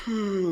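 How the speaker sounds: retold deep-breathed hmm. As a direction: imitate a husband's heavy hmm. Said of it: "in a deep breath".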